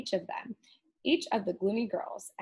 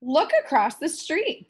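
witch voice; 5 semitones higher, 5 dB louder than usual. Acted. Witch voice, gleeful.

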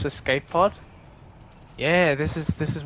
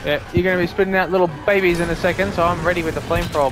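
being chased; 2 semitones higher, 4 dB louder, faster than usual. Real, not acted. Fighting monsters, being chased.

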